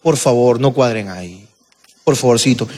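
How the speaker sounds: pedido amable en voz grave y calmada; de buena manera. Retold or imitated. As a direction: pide con cortesía, bajando el tono. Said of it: "de buena manera dijo". (ruego suave y educado)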